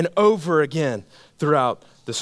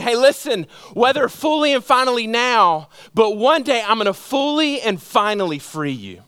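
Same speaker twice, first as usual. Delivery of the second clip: insistent, higher-pitched sermon delivery; impassioned preaching; 4 semitones higher than usual. Real, not acted. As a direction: preach a promise in a raised voice. Preacher voicing Jesus's promise.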